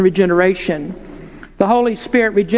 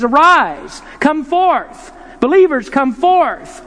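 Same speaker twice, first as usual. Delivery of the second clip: commanding call; 5 semitones higher, slower than usual. Retold or imitated. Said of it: "he issues this command".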